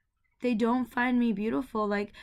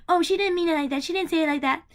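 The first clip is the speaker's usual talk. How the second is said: higher, brushing it off; dismissive dad; 6 semitones higher, 4 dB louder, faster than usual. Retold or imitated. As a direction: wave it away like a dismissive father. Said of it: "my dad is like".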